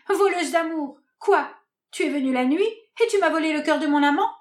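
high, sharp accusation; accusing outburst. Acted. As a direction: throw the charge at her. Hermia accuse Hélène. (accusation furieuse)

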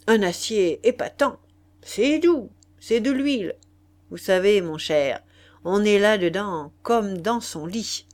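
aristocrate enjôleur qui vante sa marchandise, plus fort; marquis vantard. Acted. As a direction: vendeur bonimenteur sûr de lui. (marquis hâbleur, voix forte et enjouée)

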